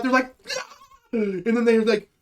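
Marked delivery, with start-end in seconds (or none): 0.6-0.7 short freak-out yelp; comic little panic outburst; mock panic cry. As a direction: let out a brief play-acted cry of panic. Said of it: "They have a mini panic freak out".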